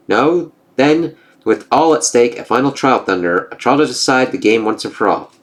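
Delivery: lightly voiced gods trading taunts; storybook reading of a Norse comic; comic dialogue read-aloud. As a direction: read the panels with a hint of character.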